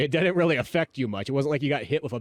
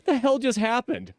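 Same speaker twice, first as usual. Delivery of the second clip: higher, slower disbelief; mock bewilderment; 10 semitones higher than usual. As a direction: act out dazed confusion, drawing it out. Dazed reaction in the moment.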